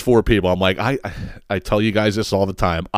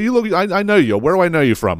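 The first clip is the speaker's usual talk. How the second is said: high, chummy mock barfly; lightly voiced nosy stranger; trashy stranger; 7 semitones higher than usual. Nosy 7-Eleven regular to the teller, high chummy voice.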